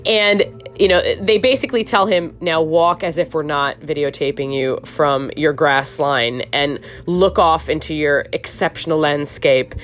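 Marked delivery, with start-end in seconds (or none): 2.4-9.7 slightly British, lower-pitched director voice; drifting British accent. Acted. Podcaster mimicking TV crew directing their subject, drifting British accent. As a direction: slip into a light British accent. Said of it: "I don't know why my accent is changing".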